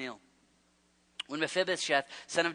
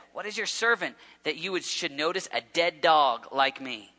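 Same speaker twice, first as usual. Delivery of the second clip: louder, pleading cry of a lowly servant; pleading humble servant; 6 dB louder than usual. Acted. Crippled servant pleading before the king, loud and humble. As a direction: beg the king, overwhelmed and unworthy.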